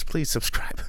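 whispered plea. Pretend. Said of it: "We need subscribers so bad".

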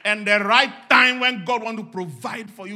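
high, loud exhortation rising to shouts; full-force preaching. Real, not acted. Preacher urging everybody to pray and talk faith, shouting. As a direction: fire off each command at the top of the voice.

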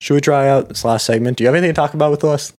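talking through hiccups; hiccupping between words. Real, not acted. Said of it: "Sorry, I've got the hiccups".

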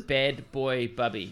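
slowly, word by word; slow clear repeat. Real, not acted. Repeating a film title for a confused friend, slow and clear. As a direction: space out each word of the title.

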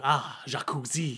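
slow, drawn-out inner voice; lingering private thought; internal monologue. Acted. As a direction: think it aloud slowly, dreamily. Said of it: "in her internal monologue".

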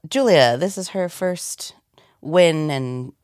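hushed announcer read; announcer whisper. Shown as a demonstration. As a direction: whisper the winner walk-up. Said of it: "winner walk-ups".

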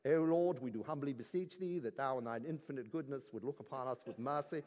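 put-on quiet, reverent old-fashioned prayer; formal solemn prayer. Pastor imitating a formal church prayer, quiet and reverent. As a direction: pray it low and humbly, like a stiff church liturgy. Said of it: "there is prayer like".

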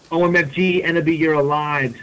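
high-pitched pretend scream; mild mock scream. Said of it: "screamed Vampire".

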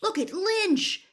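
high, loud, stretched-out cry; urgent spectator shout; excited yell. A narrator's reading. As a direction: yell to get everyone looking. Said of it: "Harry yelled".

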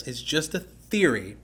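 slow, deliberate stress on "just a theory"; stressed repeat. Real, not acted. Cautioning listeners about the Markan theory, stressed repeat. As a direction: spell out "just a theory" slowly and emphatically. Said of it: "Let me stress".

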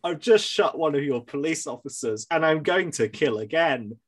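polite, deadpan mock caller; bland voice. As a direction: say the threat like ordering a pizza. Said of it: "being like".

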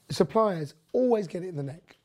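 usual speaking voice

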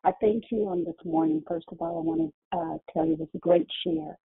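muffled, like through a wall. Real, not acted. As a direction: voice muffled by a bad phone. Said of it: "adjust your phone 'cause you sound muffled".

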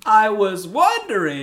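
high, slow sugary ask; sweet put-on voice. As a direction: sweeten it up, drawn out. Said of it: "mock sweet request".

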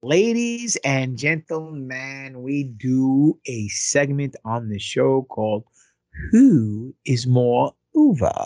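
slow, stretched ringmaster introduction; mock-grand announcer voice; show announcer. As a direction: announce the segment with drawn-out grandeur. Introduces the show's segment.

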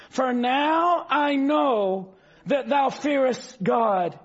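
slow, weighty King James reading; solemn scripture reading. Acted. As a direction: give each word the weight of Scripture. Reads angel's words slowly.

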